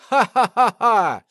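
slow, loud, mocking ha-ha-ha; mocking laughter. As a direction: laugh him off with scorn. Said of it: "засмеялся в ответ Мирослав".

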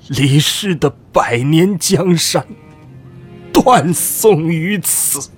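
hoarse weeping. Acted. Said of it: "扶着床沿哑声哭道".

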